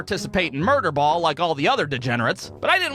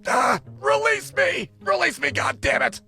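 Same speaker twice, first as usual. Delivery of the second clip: much higher, strained choking shout; strangled plea; 10 semitones higher than usual. Acted. Choking boy yelling at the kid to leave, strangled shout. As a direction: squeeze the words out while being choked.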